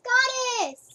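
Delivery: whispered name. Real, not acted. Gamer whispering to her cat right beside her.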